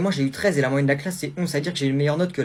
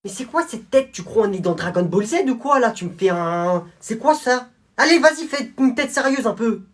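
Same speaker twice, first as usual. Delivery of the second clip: a stern guard, a bit higher and louder; scolding prison guard; 8 semitones higher, 5 dB louder than usual. Acted. Guard scolding a smiling prisoner at the photo. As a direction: tell the grinning inmate off.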